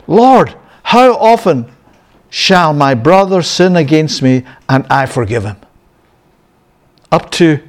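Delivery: Peter asking. Acted. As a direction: play Peter pleading for a limit. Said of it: "Peter came and said to him".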